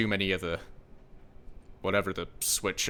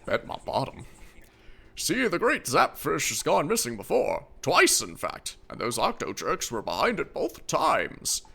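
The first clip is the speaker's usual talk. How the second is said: put-on grumpy old man; 5 semitones higher than usual. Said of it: "my old man voice".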